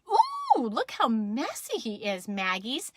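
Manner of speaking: lightly cooing, impressed mom; amazed Mama. Acted. Mama tells Maggers about the mess, lightly amazed. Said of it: "And Mama said".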